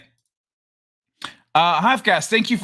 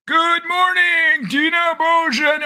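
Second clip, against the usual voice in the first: much higher, slow sing-song hello; higher sing-song greeting; 11 semitones higher, slower than usual. Acted. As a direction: stretch it out like a cheerful chant, up high. And of course.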